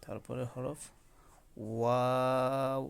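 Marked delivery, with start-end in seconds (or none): 1.7-2.8 ওয়াও said slowly with lips rounded; Arabic letter demo. Shown as a demonstration. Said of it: "মুখটি যাতে গোল হয়". (ঠোঁট গোল করে ধীরে ওয়াও উচ্চারণ)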